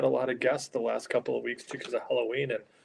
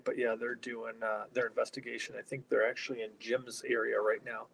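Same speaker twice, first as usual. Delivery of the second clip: softer, hushed but still voiced; trying to be quiet; 6 dB quieter than usual. Real, not acted. Host with investigators right behind them, talking quietly. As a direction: keep it down so the group nearby isn't disturbed. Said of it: "I'm trying to be quiet".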